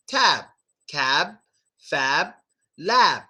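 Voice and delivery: Tab cab fab lab, b unreleased; closed-lip final b. Shown as a demonstration. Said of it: "That's how it works".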